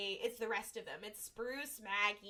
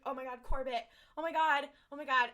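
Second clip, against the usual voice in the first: louder, rising mock panic; mock freaking out; 3 semitones higher, 6 dB louder than usual. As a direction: repeat it with growing imitated alarm. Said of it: "they all start freaking out".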